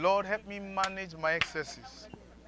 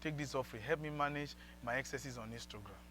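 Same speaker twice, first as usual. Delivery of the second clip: prayer; 4 semitones lower, 10 dB quieter than usual. Shown as a demonstration.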